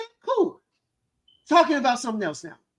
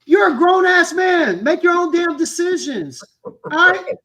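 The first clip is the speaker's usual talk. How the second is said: loud, higher, fired-up yelling; angry shout; 6 semitones higher, 7 dB louder, slower than usual. Real, not acted. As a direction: bark it out in real frustration at the audience. Heated rant at viewers.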